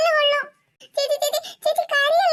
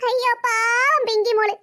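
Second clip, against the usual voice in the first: mock pity; 3 semitones lower, slower than usual. Big sister mocking little sister.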